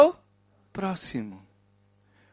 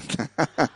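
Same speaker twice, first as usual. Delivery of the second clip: soft audience chuckles; laughter rippling through the room; crowd laughter; 5 semitones lower, 7 dB quieter than usual. Real, not acted. Congregation laughs at the car joke. (risos do público)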